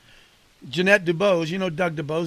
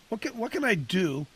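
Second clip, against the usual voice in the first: talking around a candy; mouth full. Real, not acted. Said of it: "I got a little candy in my mouth".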